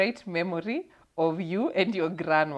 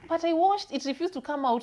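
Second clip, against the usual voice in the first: put-on high, defensive old granny; a hint of grandma shrugging it off; grandma's voice; 11 semitones higher, 5 dB louder than usual.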